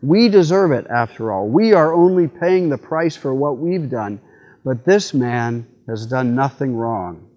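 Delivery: a firm dying man's rebuke; stern rebuke. Acted. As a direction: scold him with conviction. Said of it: "the other one rebuked him".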